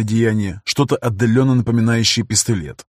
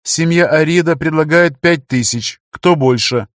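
impersonal auctioneer voice; 5 semitones higher, 4 dB louder than usual. Acted. Machine auction announcer continues.

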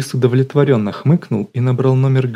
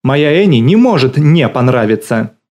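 louder, passionate exclamation; ardent outcry; 3 semitones higher, 6 dB louder than usual. A narrator's reading. Галина defending her dog Annie to the caller, a loud, ardent cry. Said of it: "пылко вскричала Галина Евгеньевна".

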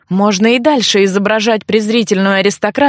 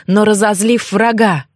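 plain reading voice

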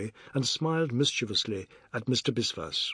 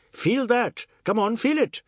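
much higher, louder boasting demand; boastful insistence; 10 semitones higher, 4 dB louder than usual. Acted. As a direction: push him to feel the muscle.

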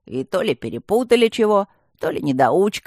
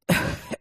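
throat clearing cough; 4 dB quieter than usual. A narrator's reading. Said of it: "Прокашлялся Ипполит".

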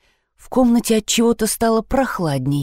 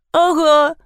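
whimpering; 9 semitones higher, 4 dB louder than usual. Acted. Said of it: "хныкала девочка".

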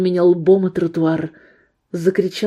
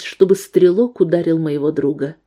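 plain reading voice

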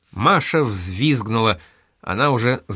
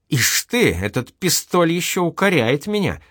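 amazed; 6 semitones higher than usual. A narrator's reading. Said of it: "изумился Семён Ульянович".

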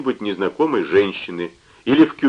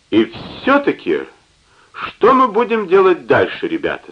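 put-on higher drunken repeat of the question; 8 semitones higher than usual. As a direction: ask again, tipsy and higher. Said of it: "спросил он ещё раз".

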